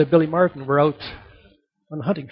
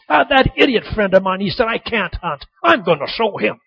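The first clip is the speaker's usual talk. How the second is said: mildly hammed-up angry outburst; put-on indignation, playing a trick; feigned anger. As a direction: stomp out grumbling in mock outrage. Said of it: "he s-, comes stomping out of the house".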